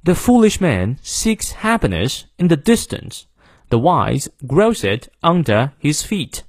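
British accent with stressed content words; British English. Shown as a demonstration. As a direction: read it slowly in British English, dropping the R in "under". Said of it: "英式发音元音后的R不念".

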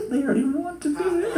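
high, laughing aside; laughing God. Retold or imitated. God amused at commanding what we want, laughing. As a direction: chuckle it out amused. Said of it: "He's like".

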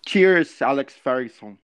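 quick cheery toast in English; English shout-out. Pretend. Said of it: "Manda um salve pra ele em inglês aí". (saudação rápida em inglês)

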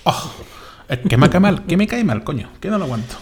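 high, loud mock whine; mock whining. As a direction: whine like a spoiled brat. Mocking a whiny complaint.

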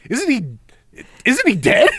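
high-pitched, disbelieving question; mock incredulity. Podcaster voicing Howie questioning West about the warden, mock incredulous. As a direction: rise sharply into baffled, hammed-up disbelief.

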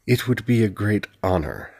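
put-on a touch of a thick Kashani accent in Britannian; heavy Kashani accent. A narrator's reading. Shinobu feigning poor Britannian to the curate, a hint of a Kashani accent. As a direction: lean into a Kashani accent on purpose. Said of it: "stressing his accent".

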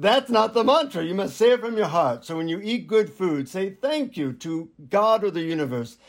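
lilting imitation of an Indian guru; Indian accent. Guru instructing the seeker on gratitude, Indian accent. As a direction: put on an Indian teacher's accent. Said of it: "in an Indian accent, he says".

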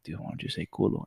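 put-on hushed, secretive dare to a kid; whisper. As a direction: whisper it low, as if hiding from mom. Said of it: "but I would whisper to him".

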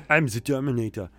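lightly voiced Austrian robot action hero; a hint of a mock Austrian accent; Arnold Schwarzenegger. Friend quoting the film, lightly put-on Austrian accent.

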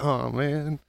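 softly sighed mild disappointment; a deflated little groan, trailing away; let down. Acted. Acting out a let-down partygoer.

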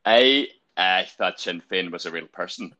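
lightly put-on Northern Irish accent; a second go at Northern Irish. Shown as a demonstration. Trying another line on critical friends, Northern Irish accent. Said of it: "How about this?".

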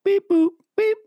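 loud high robot beeping; robot beeps. Acted. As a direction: beep like a robot.

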